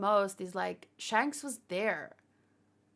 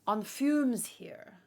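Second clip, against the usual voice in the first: tired; 2 semitones higher, much slower than usual. Real, not acted. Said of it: "streamed for more than nine hours".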